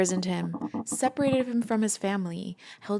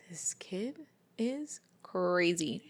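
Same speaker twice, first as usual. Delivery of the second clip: whispered aside; 3 dB quieter, much slower than usual. Retold or imitated. Haymitch thinking about the kid.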